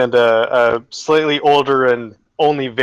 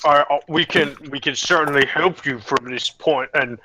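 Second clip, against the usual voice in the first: put-on flustered manager in a Vogon accent. Manager apologising to the inspectors, flustered Vogon accent. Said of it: "Uh, Vogon".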